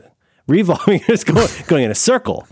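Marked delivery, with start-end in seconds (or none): 0.5-1.0 "revolving" said REE-volving; first-syllable stress. Shown as a demonstration. Host amused by the other one, first-syllable stress on "revolving". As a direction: hit REE at the start of "revolving". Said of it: "revolving versus what's the other one".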